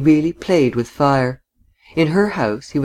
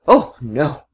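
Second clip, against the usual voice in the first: full-throated cry. A narrator's reading. Woman denying his question, full-throated cry. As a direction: cry out in open protest. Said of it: "she cried with full throat".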